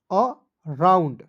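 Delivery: अ and राउंड said slowly as two separate parts; split into syllables. Shown as a demonstration. Teacher splitting the word for pupils, slow and separated. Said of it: "क्या पढ़ेंगे दोस्तों?".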